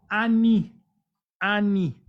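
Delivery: Ani said loudly and distinctly, then repeated; Ani pronunciation. Shown as a demonstration. Teacher showing how one introduces oneself in Hebrew, Ani loudly sounded out. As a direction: call out Ani as "A-NI", clearly. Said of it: "basta que diga".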